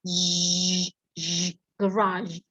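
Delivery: "garage" slow, after a drawn-out zh sound; slow pronunciation demo. Shown as a demonstration. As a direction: isolate the zh, then say "garage". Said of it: "Kita dengar lagi".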